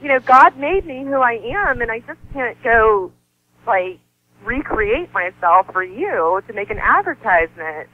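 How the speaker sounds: high-pitched, tearful protest; pleading through a half cry; retold tearful plea. Refusing to recreate herself, high tearful protest. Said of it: "I was crying to him".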